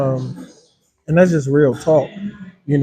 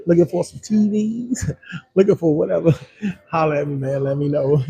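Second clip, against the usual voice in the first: laughing. Real, not acted. Laughs through the ad.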